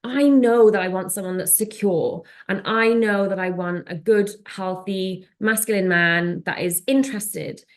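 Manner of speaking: exasperated, emphatic inner rant, pitch climbing; worked-up retelling, punching the key words; retold emotional turmoil. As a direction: act out a frustrated plea to the universe. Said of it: "emotional turmoil where I was like".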